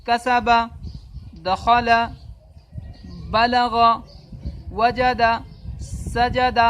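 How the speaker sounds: teacher reviewing the lesson words; revision read-through. Shown as a demonstration. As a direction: read the list word by word, clearly. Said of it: "ذرا خیال رکھنا ہے".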